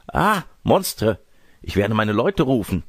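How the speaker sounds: put-on high, shocked old-lady cry; horrified outcry. Old lady threatened with being eaten, horrified outcry. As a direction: exclaim high, then threaten to call help.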